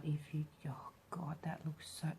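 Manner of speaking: awed whisper. Real, not acted. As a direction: breathe it out in wonder. Awed by satisfying paint swirls.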